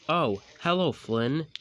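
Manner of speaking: high loud greeting; lightly voiced bright little engine; Birdie voice. Birdie greeting Flynn, lightly voiced.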